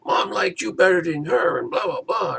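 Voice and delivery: high, shrieking mock tantrum; hammed-up furious yell with a tearful wail; mock rage. Recapping Ruby screaming at Daisy, hammed-up shrieking rage. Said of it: "Ruby's in a rage".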